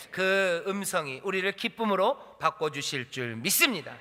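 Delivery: loud, slow preaching peak; fervent proclamation. Real, not acted. Preacher assures the congregation of joy, fervent and loud. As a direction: proclaim it slowly at full force.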